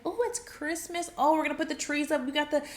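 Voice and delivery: lightly acted giddy excitement; excited. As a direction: bubble over with holiday plans. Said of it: "You get excited".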